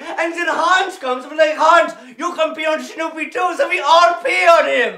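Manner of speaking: put-on excited German-accented shouting; hammed-up triumphant rant; manic gloating. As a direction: rave gleefully, carried away by the tale. Pilot gloats on.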